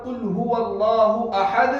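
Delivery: pause-form recitation, कुल हुवल्लाहु अहद; Quranic recitation. Shown as a demonstration. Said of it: "अगर हम रुकते हैं यहाँ पर".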